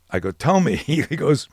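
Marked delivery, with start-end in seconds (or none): 0.3-0.8 much higher and louder, laughing insistence; pressing coach. Retold or imitated. Coach pushing his fighter to confess, loud and high. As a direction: push him to spill it, half laughing.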